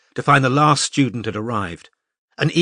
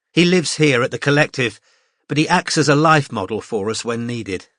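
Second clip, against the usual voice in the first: lightly voiced cheerful teacher; 3 semitones higher than usual. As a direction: address the class like a confident tutor. Mariam introduces the model.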